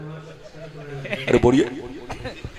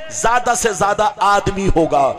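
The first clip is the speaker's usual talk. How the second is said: normal talking voice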